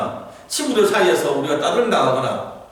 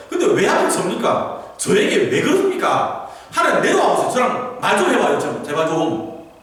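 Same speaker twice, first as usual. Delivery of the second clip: pleading outcry; 5 semitones higher, 3 dB louder than usual. Retold or imitated. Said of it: "계속 그거 하는 거예요".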